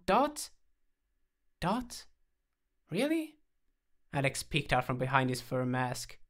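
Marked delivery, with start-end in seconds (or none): 0.1-3.4 very high pleading pup voice; squeaky puppy ventriloquism; puppy impersonation. A narrator's reading. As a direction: beg as a cute little dog. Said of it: "donned his puppy impersonation voice".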